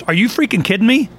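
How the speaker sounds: mock-incredulous outburst. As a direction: mimic someone who can't believe it. Retells comedian's reaction to learning news.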